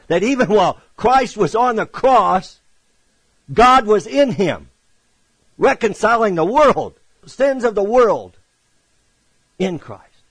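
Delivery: high, loud, emphatic sermon delivery; full-force preaching. Real, not acted. Preacher proclaiming God in Christ at the cross, full-force preaching. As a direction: proclaim it forcefully, driving each phrase home.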